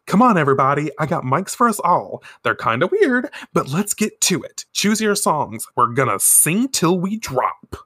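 rally the friends to sing along. Acted. Minako rallies classmates to sing.

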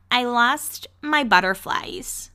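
slowly drawn-out impression; imitating Gigi. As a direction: draw it out like a reality star's big line. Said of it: "when she's like".

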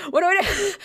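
high-pitched retold fluster; mock panic. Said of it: "I'm, like, panicking".

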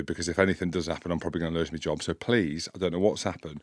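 subdued plea. Retold or imitated. Pleading with driver in retold row.

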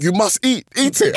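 high, loud mock command to eat; acted insistent order. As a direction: push it hard, imitating an insistent elder. Relatives' order acted in a story.

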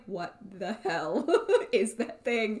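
imagined disbelief. Retold or imitated. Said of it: "you can tell in his eyes".

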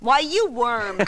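indignant outburst. Acted. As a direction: snap back as if truly insulted. Waitress insulted by trout comparison.

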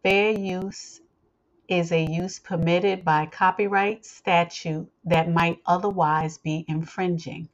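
measured, formal legal reading; formal disclaimer read. Acted. Host reading listeners the copyright disclaimer, formal read.

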